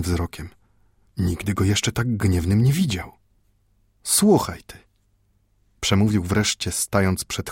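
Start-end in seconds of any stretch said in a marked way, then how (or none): 4.0-4.8 put-on high, stern call from an angry old man; old Jewish grandfather. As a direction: grab the boy's attention, upset. Mendel starts scolding grandson.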